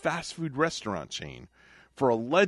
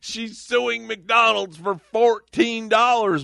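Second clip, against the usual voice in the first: incredulous emphasis; 11 semitones higher, 7 dB louder, slower than usual. Real, not acted. Incredulous host repeating the amount.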